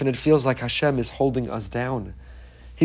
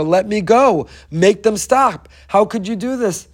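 mild retold scream; 5 semitones higher, 3 dB louder, slower than usual. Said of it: "they screamed to the father".

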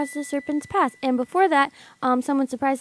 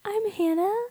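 raised high voice; 8 semitones higher, 4 dB quieter, slower than usual. Shown as a demonstration. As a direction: lift it up high. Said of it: "how to do high voice".

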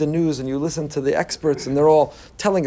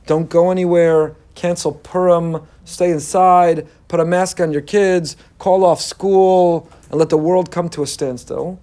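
panicky outer voice; slower than usual. Retold or imitated. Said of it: "my outer voice looks at a world and says".

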